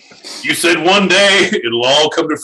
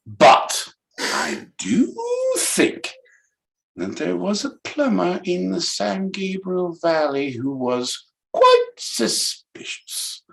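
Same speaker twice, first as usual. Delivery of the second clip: lightly put-on British voice; a hint of British accent; 5 semitones higher than usual. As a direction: try a posh British delivery. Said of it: "in a British accent".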